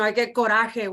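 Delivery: coraje with a Spanish rolled-r and guttural j, co-RA-he; Spanish word coraje. Shown as a demonstration. Mom speaking at a hearing says coraje in Spanish. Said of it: "we say in Spanish".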